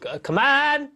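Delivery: high, loud call to come in. Real, not acted. The speaker calling a guest through the door, loud and high. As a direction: shout them in from across the room.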